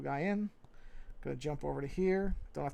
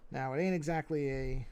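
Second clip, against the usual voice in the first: casual New York accent. Real, not acted. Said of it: "I am really slipping into my New York here".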